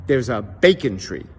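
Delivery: put-on old man's Yiddish accent; lightly accented Yiddish warning; elderly Jewish man. Old man warns the traveller, Yiddish accent. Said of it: "The elderly Jewish man looks at him and says".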